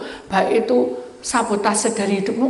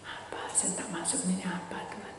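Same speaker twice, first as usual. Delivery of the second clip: hushed, lower, confused questioning; bewildered prayer; 4 semitones lower, 13 dB quieter than usual. Retold or imitated. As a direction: murmur your confusion softly to God. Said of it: "Terus saya bingung". (doa bingung dengan suara lirih)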